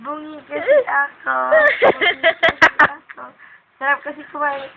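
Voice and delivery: lisping through missing front teeth. Real, not acted. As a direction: talk with gaps where the front teeth are. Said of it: "wala kang ngipin".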